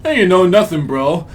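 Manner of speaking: loud, high bro voice; dude voice. Retold or imitated. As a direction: play a loud dudebro. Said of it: "with a very dude voice".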